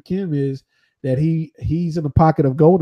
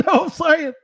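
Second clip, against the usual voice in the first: laughing in character; 13 semitones higher than usual. Retold or imitated.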